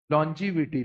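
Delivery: teacher models लॉन्जिविटी as lon-ji-vi-ti with a falling close; pronunciation demo. Shown as a demonstration. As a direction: spell out लॉन्जिविटी clearly for the class to repeat. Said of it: "ये word को जरा pronounce करो मेरे साथ".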